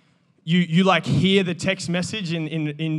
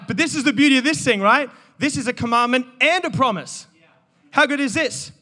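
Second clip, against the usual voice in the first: excited preaching; 5 semitones higher than usual. Real, not acted. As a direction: let the joy spill out.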